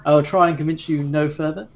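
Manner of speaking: lightly voiced servant, dismissive and scoffing; a hint of a sniffy crew member brushing him off. Crew member scoffing at the raving passenger, mildly dismissive. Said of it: "the servant kind of just scoffs".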